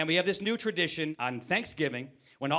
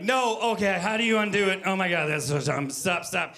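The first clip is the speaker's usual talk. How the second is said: panicked regret; 2 semitones higher, 3 dB louder than usual. Retold or imitated. Panicking over a sent text.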